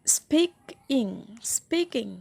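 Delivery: স্পিকিং broken slowly, weight on স্পিক; stress on first syllable. Shown as a demonstration. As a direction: lean on স্পিক, let ইং drop. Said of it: "স্পিক বেশি উচ্চারণ দিই".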